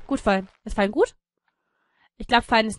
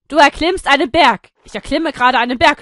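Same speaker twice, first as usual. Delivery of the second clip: loud proclamation; 4 semitones higher, 9 dB louder than usual. Pretend. Announces the heroic climb.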